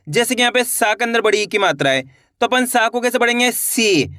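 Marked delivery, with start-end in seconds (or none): 3.5-4.1 सी with a long, held ee; drawn-out vowel. Shown as a demonstration. Teacher answers how to read the long-ee sign, सी drawn out. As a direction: stretch the ee in सी. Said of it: "खींच के पढ़ना है".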